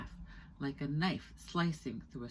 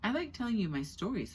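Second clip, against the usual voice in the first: smiling; 8 semitones higher, 4 dB louder than usual. Acted. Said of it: "told Diva with a smile".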